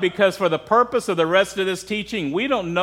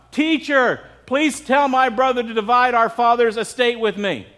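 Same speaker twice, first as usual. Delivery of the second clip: higher voice, calling out from a crowd; raised, high-pitched heckler's call; mock yell; 5 semitones higher than usual. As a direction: call out to the teacher over a crowd. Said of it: "some guy yells out".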